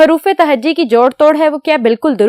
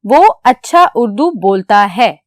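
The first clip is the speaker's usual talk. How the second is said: slow reading of wrong sentence; 4 semitones lower than usual. Shown as a demonstration. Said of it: "गौर से पढ़ें".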